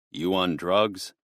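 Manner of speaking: slow, flat suspicious question; suspicious cop. Acted. Officer Jones eyeing Garth, slow and suspicious. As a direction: drag out the doubt.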